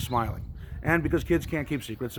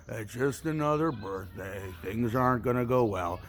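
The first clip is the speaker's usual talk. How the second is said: deflated gloom; 2 semitones lower, slower than usual. Retold or imitated. Townsperson deflated after passing the sad lady, slow glum mumble. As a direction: let the air out, droop slowly.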